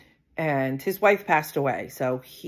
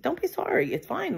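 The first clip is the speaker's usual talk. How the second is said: high, quick reassuring brush-off; bright reassurance; 12 semitones higher than usual. Retold or imitated. Telling her date not to apologise, high reassurance. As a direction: wave away his apology.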